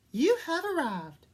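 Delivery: a smug navigation device; robotic sat nav. A narrator's reading. The sat nav announcing arrival unhelpfully, robotic. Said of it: "said the Santa knave, unhelpfully".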